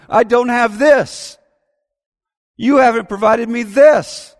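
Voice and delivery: put-on complaining child. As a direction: whine like a kid who feels shortchanged.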